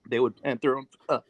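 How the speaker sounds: talking through a mouthful of food; words around a bite of food; mouth full. Real, not acted. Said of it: "sorry, I'm choking. I'm eating Chipotle".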